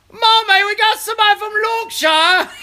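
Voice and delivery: calling Mommy with a laughing shout about a Yorkshire viewer; excited call. Real, not acted. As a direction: holler into the house, thrilled. Calls to wife about viewer.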